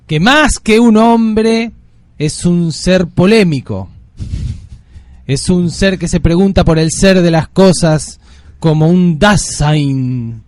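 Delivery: very slow, drawn-out solemn announcer delivery; grandiose radio introduction. Acted. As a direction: announce the guest with long dramatic pauses between phrases. Mock-solemn introduction of the guest.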